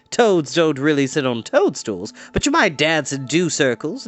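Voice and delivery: chatty, sing-song sorceress; cheery enchantress. Acted. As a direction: coax the children like a kindly witch. Enchantress voice held.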